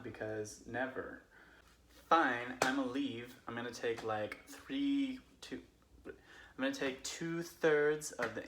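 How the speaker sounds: put-on casual drunk Californian friend telling Bible stories; Californian accent. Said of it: "I'm going to tell them as a Californian would".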